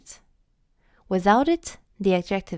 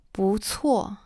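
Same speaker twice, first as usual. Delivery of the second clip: whispered repeat. Shown as a demonstration. Teacher whispers "不错" again for students. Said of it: "repeated demo, second whispered".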